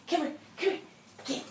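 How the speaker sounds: high, eager call to the dog; excited call. Real, not acted. Trainer calling the dog over, eager. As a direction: call her in bright and keen.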